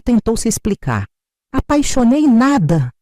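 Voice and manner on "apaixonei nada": slow, high, loud scornful yell; shouting. A narrator's reading. Father shouts down Roberto's excuse, slow and scornful. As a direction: spit each word back in scorn. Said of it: "Foi meu pai quem gritou".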